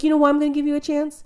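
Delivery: imitating a fervent declaration; impassioned retelling. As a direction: build to a high, loud punch on the reason. Retells chef's impassioned job offer.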